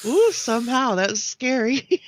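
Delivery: thin sound picked up by headphones; headphones used as mic. Real, not acted. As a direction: voice leaking through headphones. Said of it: "somehow you came into my headphones".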